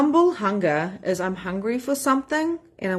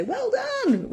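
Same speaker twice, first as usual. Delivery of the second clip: "Well done" sung out much higher; bright praise. Retold or imitated. Coach praising members who show up, high sing-song. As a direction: cheer them on like proud mum. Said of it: "So that's why I say".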